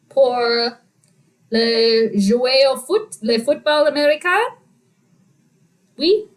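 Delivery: speaking French with careful, halting phrasing; playful learner's French; French impersonation. Shown as a demonstration. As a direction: put on your French, questioning lilt at phrase ends. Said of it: "I was doing my French impersonation".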